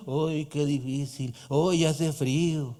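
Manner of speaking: drawn-out mock lament; whiny complainer. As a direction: mimic a bitter grumbler. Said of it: "No vivas amargado pensando en".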